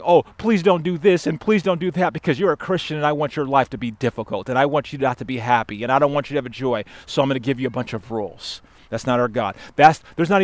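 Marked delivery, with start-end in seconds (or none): 0.0-8.6 mock pleading God. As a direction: parody of a fretful rule-giver, hurried run-on. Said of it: "Our God's not sitting around saying".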